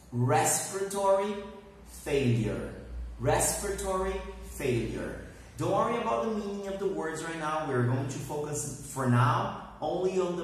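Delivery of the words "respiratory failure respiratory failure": said fast. Shown as a demonstration. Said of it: "You have to say it fast".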